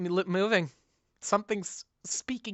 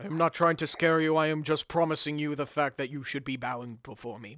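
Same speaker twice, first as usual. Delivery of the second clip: booming demon lord; 4 dB louder than usual. Acted. GM voices menacing dog-god.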